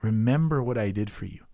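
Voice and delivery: gentle, reassuring reminder; tender Jesus reassuring; loving reminder. Retold or imitated. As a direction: say it to comfort, not accuse.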